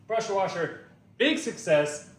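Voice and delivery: winded after pulling the cord; gasping between words; out of breath. Real, not acted. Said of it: "once I catch my breath".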